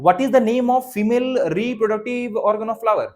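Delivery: each word drawn out slowly for dictation. Shown as a demonstration. Teacher slowly dictating the female organ question to pupils. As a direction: spell the question out slowly so they can write.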